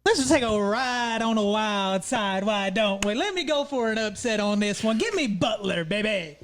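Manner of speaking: confident. Real, not acted. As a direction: make the bold pick with confidence, taking your time. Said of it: "talking with confidence right now".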